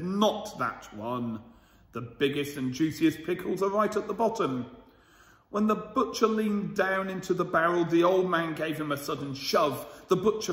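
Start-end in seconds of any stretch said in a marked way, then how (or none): 0.0-4.7 put-on a sly old man, taking his time. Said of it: "but the old man said".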